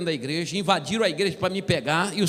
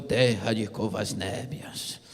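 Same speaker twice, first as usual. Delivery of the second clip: lower, slow, strange tongue-speaking voice; mock tongues, low and slow; 10 semitones lower, slower than usual. Another believer speaking in tongues, low slow mock. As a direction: drone out fake tongues deep and slow. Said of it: "O outro".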